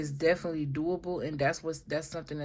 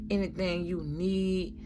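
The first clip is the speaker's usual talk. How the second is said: God speaking; 2 semitones higher than usual. Pretend. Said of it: "almost like God telling you".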